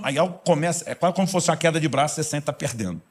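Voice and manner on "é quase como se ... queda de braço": normal talking voice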